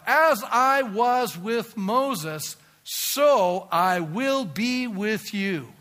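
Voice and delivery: slow drawn-out preaching; solemn sermon delivery. Acted. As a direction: stretch out each word of the promise. Preaching God's promise slowly.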